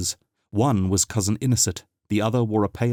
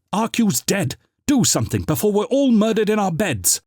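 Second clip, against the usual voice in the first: panicked; 12 semitones higher, 4 dB louder than usual. Acted. Panicked plea after shout.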